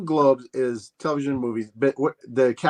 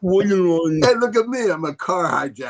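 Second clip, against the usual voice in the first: high, put-on thug voice; mock tough guy; 7 semitones higher, slower than usual. Friends joking, playing a car hijacker in a silly voice. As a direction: brag like a cartoon car thief.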